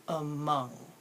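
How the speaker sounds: "Among" drawn out, "a" relaxed and "mong" clear; slow model. Shown as a demonstration. Teacher slowing down a word for students, deliberate "Among". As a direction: say "Among" slowly, syllable by syllable. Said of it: "Say it slow".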